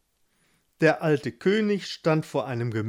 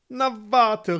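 high, indignant cry; threatening call; 7 semitones higher, 4 dB louder than usual. A narrator's reading. Gustav calls after his teasing brother, high and cross. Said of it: "rief Gustav".

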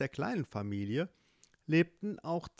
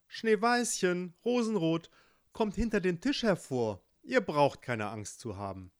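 higher, kind mother's voice; welcoming mother; 4 semitones higher than usual. Acted. Mother tells daughters the guests are safe, warm call. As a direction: call the girls out from hiding.

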